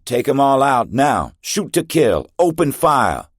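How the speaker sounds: loud, very high battle shout; yelling. A narrator's reading. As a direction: scream the order down the corridor. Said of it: "yelled for the others".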